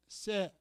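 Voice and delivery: 쇠 said as the Gyeongsang word for tongue, a single drawn-out syllable; Gyeongsang dialect word. Shown as a demonstration. Pastor shows the congregation the Gyeongsang word 쇠, dialect demo. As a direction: give 쇠 the way folks back home say it. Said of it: "혀를 쇠라 그러죠".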